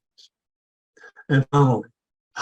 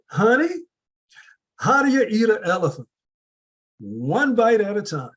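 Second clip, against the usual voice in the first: much higher, fond Southern grandma voice; grandma's southern accent; 8 semitones higher than usual. Retold or imitated. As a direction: imitate a Southern grandma lovingly, pitched way up. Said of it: "that southern accent that she had".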